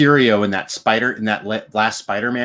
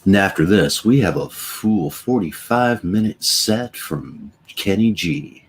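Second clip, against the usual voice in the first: smooth jazz DJ; 4 semitones lower, slower than usual. Pretend.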